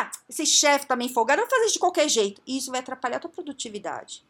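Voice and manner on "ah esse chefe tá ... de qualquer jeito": quick, louder grumble of a fed-up worker, pitched higher; hammed-up irritated employee muttering about the boss; mock annoyed employee. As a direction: rattle it off like a worker brushing off the boss.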